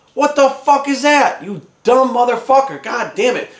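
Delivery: exasperated cursing, pitched high; shocked outrage. Retold or imitated. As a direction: swear in appalled disbelief, drawing out the opening. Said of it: "I was just fucking shocked".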